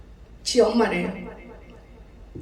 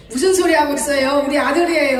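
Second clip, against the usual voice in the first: loud, higher indignant retort; 4 semitones higher, 5 dB louder than usual. Retold or imitated. Pastor correcting village women about her son, indignant. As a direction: snap back at the gossip, louder.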